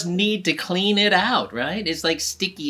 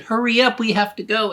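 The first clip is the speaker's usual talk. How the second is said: higher, louder hurried teacher; 7 semitones higher, 4 dB louder than usual. Acted. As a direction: rush the class out. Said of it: "and the teacher said".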